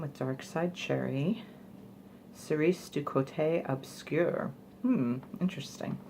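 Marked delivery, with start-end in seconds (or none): 2.3-4.5 slow, awkward attempt at French; horrible French accent. Shown as a demonstration. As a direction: read French slowly with a poor accent. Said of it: "I apologize for the horrible French accent".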